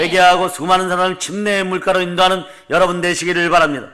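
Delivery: rousing pulpit proclamation; fervent sermon delivery; full-force preaching. Acted. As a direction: preach it out to the congregation. Pastor exhorting congregation.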